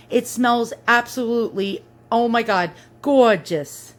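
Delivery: Queens accent on gorgeous; New York accent. Shown as a demonstration. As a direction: say it like a New Yorker. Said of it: "That's my New York accent for you".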